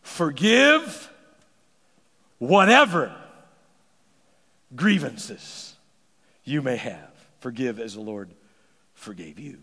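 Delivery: word by word, stressing "whatever"; slow emphatic reading. Shown as a demonstration. Preacher reading the verse slowly to the congregation. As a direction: let each word land, fading. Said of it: "look at what the Bible says".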